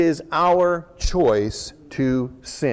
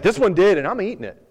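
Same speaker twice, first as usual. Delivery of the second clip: defiant; 6 semitones higher, 4 dB louder, faster than usual. Acted. Crab defiant while eating.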